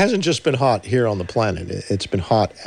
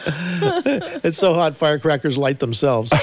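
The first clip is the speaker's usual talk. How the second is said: laughing joke delivery; 5 semitones higher, slower than usual. Acted. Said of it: "more like Rodney Dangerfield".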